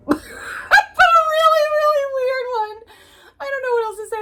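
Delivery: high, loud laughing burst; giggly high-pitched exclamation; laughing shout. Real, not acted. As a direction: laugh it out in disbelief. Laughing at the love scene.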